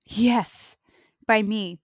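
low, booming dramatic trailer narrator; movie trailer voice. Acted. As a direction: announce doom like an epic trailer. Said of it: "I wanted to try my movie trailer voice".

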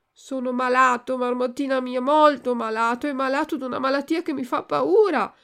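a scared puppet pleading with his friend; frightened Pinocchio. Acted. Pinocchio voiced in story.

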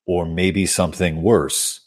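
stuffy nose. Real, not acted. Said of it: "my apologies for the way I sound right now".

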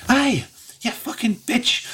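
high-pitched angry scolding; mad Trixie. Acted. Mad Trixie turns towards her crying friend, angry high voice. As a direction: lay into your friend in a high, furious voice. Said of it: "kinda looking really mad".

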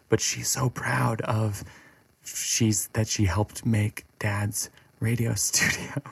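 slow, softened, tender pride; proud parent slightly choked up; halting, quietly moved. Real, not acted. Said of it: "I literally get choked up".

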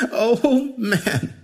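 high-pitched "oh" through laughter; amused stranger catching his breath from laughing; between chuckles. A narrator's reading. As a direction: blurt it out while chuckling. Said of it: "he blurted out in between chuckles".

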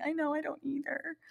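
high, whimpering mock cry; fake-cry the agreement. Designer agreeing with the fit model in a high mock whimper. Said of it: "And I'm like".

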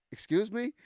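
high, drawn-up questioning disbelief; incredulous. Retold or imitated. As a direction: challenge it in mock shock. Incredulous reply to the boast.

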